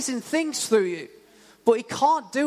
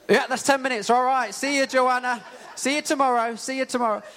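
hammed-up, cheerful brush-off that laughs at itself; laughing brush-off; 6 semitones higher than usual. Mock brushing off his girlfriend.

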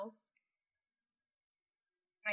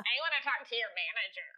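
fast, pushy manager-demanding emu; faster than usual. Acted. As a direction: talk like an indignant emu. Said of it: "I like your emu voice".

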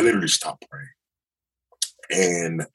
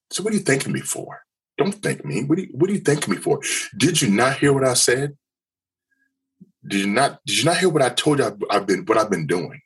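higher, fast and exasperated questioning; irritated; 5 semitones higher than usual. Retold or imitated. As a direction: fire back irritated questions at the counselor. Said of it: "I'm irritated".

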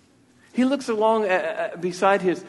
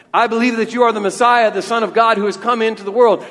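Martha's confession; 5 semitones higher, 9 dB louder than usual. Acted. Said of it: "look what she says".

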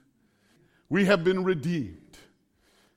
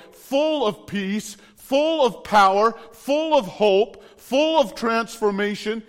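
raised-pitch sermon delivery with punched key words; fervent preaching; 4 semitones higher than usual. Real, not acted. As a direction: preach it with conviction, building through each list. Preaches with force to congregation.

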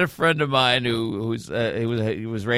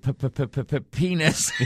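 stuttering on the first sound. Retold or imitated. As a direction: stammer p- p- p- before the word. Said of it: "she stuttered".

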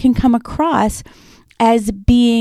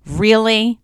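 sarcastic. Shown as a demonstration. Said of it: "You can have a sarcastic tone".

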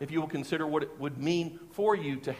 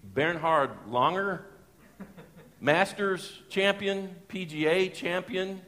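slow, disbelieving realisation; acted starstruck recognition, drawn out; dawning astonishment; 4 semitones higher, slower than usual. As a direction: stretch out each title in mock awe. Acts out his dawning recognition.

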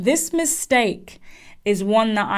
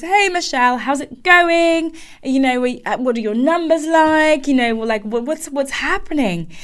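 pumped CEO; 5 semitones higher than usual. Retold or imitated. CEO quizzing his star hire on numbers, pumped and eager. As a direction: fire off questions like an excited boss. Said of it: "He's really pumped".

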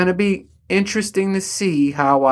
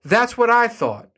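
told you so; 8 semitones higher than usual. Retold or imitated. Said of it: "And I was like".

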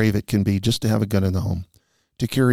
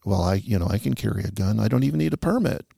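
imitating a flippant gun carrier; offhand mock dismissal, pitch lifting late; 3 dB quieter than usual. Instructor quoting people who think no permit is needed, flippant. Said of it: "there many times is a flippant attitude".

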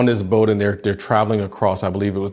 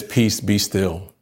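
slow, steady command; slow and calm; much slower than usual. Retold or imitated. Jesus commanding wind and sea, slow and calm. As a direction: let each word settle slowly. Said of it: "And so he says".

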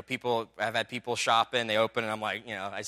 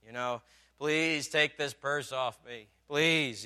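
put-on whiny little girl; much slower than usual. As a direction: beg like a tired toddler. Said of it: "He's like".

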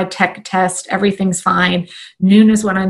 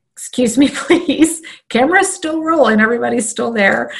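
high, laughing excuse me; flustered apology; 4 semitones higher than usual. Retold or imitated. Trainer pausing live stream to excuse herself, high laughing. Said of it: "paused in the middle ... said".

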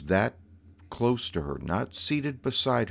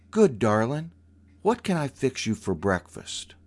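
sweet again; 4 semitones higher than usual. Retold or imitated. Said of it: "her voice completely changed".

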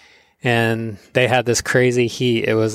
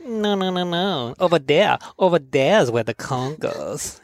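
arguing Hawaiian uncle; 5 semitones higher than usual. Retold or imitated. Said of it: "the other guy's like".

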